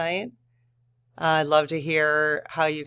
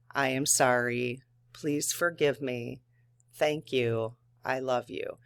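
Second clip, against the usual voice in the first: soft prayer; 4 dB quieter than usual. Shown as a demonstration. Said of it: "You could say that to somebody".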